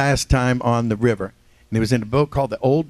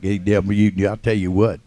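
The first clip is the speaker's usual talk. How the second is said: a hint of a down-south twang; just a touch of a Southern accent; 4 semitones lower than usual. Shown as a demonstration. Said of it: "talking like".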